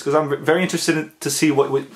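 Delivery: nervous stutter; stumbling, stuttering over words. Real, not acted. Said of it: "I'm sorry if I'm stuttering".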